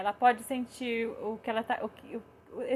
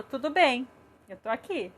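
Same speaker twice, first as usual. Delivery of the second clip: calm reassurance. Retold or imitated. Mother answering her daughter's refusal of a hug, calm reassurance.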